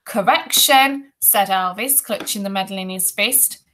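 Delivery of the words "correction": high, slow, loud correction; bossy correction. A narrator's reading. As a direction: overrule with a drawn-out word. Bully overrules the boy.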